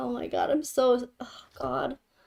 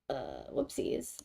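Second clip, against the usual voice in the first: low silly whoopsies; 13 semitones lower, 14 dB quieter, slower than usual. Real, not acted. Embarrassed mistake.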